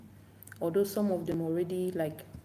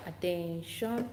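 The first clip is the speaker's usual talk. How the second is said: drawn-out "attention" lifting at the end; slow classroom call, rising; slower than usual. Shown as a demonstration. Teacher repeats the attention phrase, slow rising call. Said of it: "So when you say".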